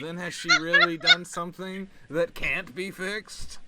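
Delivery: hammed-up story reading; visual novel reading. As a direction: read the inner monologue aloud with extra drama. Reads visual novel aloud.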